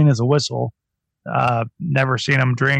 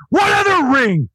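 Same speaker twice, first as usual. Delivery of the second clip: incredulous mockery; 8 semitones higher than usual. Real, not acted. Mocking the promo line.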